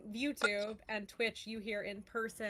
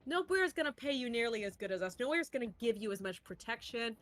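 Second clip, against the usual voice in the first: boss dismissing her; faster than usual. Acted. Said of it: "And he goes".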